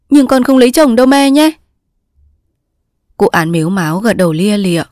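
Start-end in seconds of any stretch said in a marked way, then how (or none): 0.1-1.5 high, urgent plea; insistent high daughter's voice; pleading daughter. Acted. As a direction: beg mother to agree, pitched well up. Tearful daughter pleads with mother.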